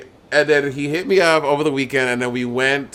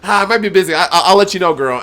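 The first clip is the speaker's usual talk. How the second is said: higher, hesitant stalling voice; imitating Bianca dodging; 5 semitones higher than usual. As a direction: hem and haw like Bianca. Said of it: "She's like".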